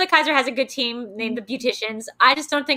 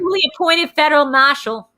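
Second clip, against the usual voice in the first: mock Boston movie accent; put-on Boston accent, R's dropped; 4 semitones higher than usual. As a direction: imitate a Boston cop in the film's accent. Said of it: "what is that accent".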